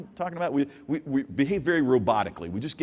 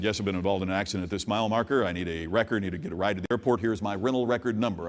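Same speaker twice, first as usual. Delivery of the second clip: lower, fast, monotone robotic recital; 5 semitones lower than usual. Retold or imitated. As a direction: rattle it off like a machine on autopilot. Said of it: "Very robotically".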